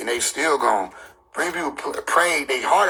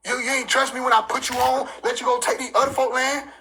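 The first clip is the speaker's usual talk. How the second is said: mock angry God; 5 semitones higher than usual. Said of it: "God used to get mad".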